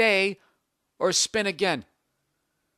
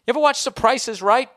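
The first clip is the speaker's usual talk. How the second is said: game show host; 8 semitones higher, 7 dB louder than usual. Shown as a demonstration. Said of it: "Did I just spit on my own microphone".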